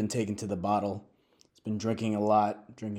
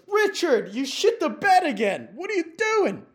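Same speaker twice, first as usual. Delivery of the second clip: much higher and louder, furious shriek; shrieking wife; 7 dB louder than usual. Retold or imitated. Wife finding her drunk husband soiled the bed, screaming. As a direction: scream at him in disgust.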